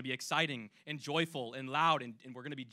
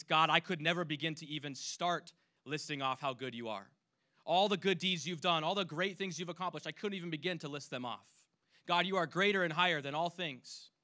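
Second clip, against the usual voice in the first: praising God; 3 semitones higher, 4 dB louder than usual. Pretend. Showing the congregation what worship sounds like, joyful. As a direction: lift it up in glad praise.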